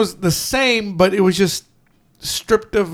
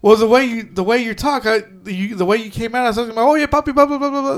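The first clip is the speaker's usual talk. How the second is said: higher-pitched retelling, climbing into mock babble; imitated movie character; 4 semitones higher, faster than usual. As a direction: lightly mimic his speech, rising as it dissolves into filler. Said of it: "he starts speaking in Puerto Rican Spanish".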